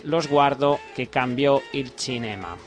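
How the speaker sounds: Italian title in imperfect Italian pronunciation; Spanish-tinged Italian accent; amateur Italian accent. Real, not acted. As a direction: attempt the Italian as a Spanish speaker would. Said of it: "Perdón por mi pronunciación italiana".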